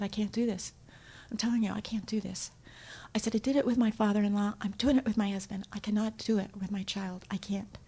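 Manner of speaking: whispering desperate phone call; soft, falling to a whisper; quiet desperate I can't; hushed plea. Retold or imitated. Pleading with sponsor on phone.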